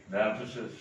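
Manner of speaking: very long pauses between words; word-by-word dictation. Shown as a demonstration. Spelling out an example while writing.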